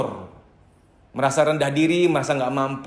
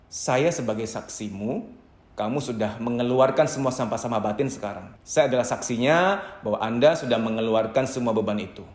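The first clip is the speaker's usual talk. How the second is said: calm soothing; 4 semitones lower than usual. Shown as a demonstration. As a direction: settle them gently, like a witness to their relief. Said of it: "Anda ngomong begini".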